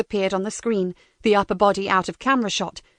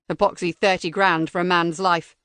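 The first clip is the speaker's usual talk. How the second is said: robotic voice; 4 semitones lower than usual. Acted. Interrogator scorns.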